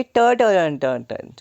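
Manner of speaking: "ट, ट" tapped out as a crisp t sound; repeated t sound. Shown as a demonstration. Teacher demonstrating the consonant sound to students. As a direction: tap out the t sound again and again. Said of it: "consonant sound आ रही है".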